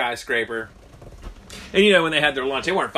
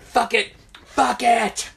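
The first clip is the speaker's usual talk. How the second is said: high, loud exclamation; mock defiant yell; 12 semitones higher, 7 dB louder, much slower than usual. Workers agreeing to jump off, mock defiant yell.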